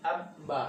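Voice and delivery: আব বা in two parts, b sounded twice; doubled b demo. Shown as a demonstration. Teacher shows ba pronounced twice under tashdid, doubled-b demo. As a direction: close আব on b, then release বা. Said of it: "বাটা কিন্তু আমাদের দুবার উচ্চারিত".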